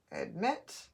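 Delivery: "Admit" as one joined word; pushed together. Shown as a demonstration. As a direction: say "Admit" with no gap between syllables. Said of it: "when I push it together, I have my word".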